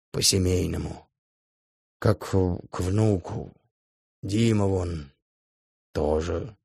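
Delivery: put-on mildly wailing like an old woman; по-бабьи причитая. A narrator's reading. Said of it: "по бабье всплёскивает руками". (по-бабьи причитая, обиженно)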